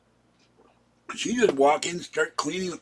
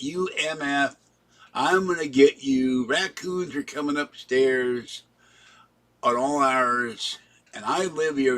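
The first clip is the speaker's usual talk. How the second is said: mildly louder mock yell, slowed; imitating a raving neighbour, understated; retold yelling; 2 semitones higher, 4 dB louder than usual. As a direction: rant at him like the stranger does. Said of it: "screaming at the top of his lungs".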